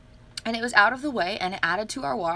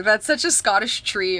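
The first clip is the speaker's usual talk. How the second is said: louder, lightly put-on Scottish accent; mock Scottish accent; 5 dB louder than usual. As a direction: admire it in a rough Scottish accent. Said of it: "but in an accent, we were like".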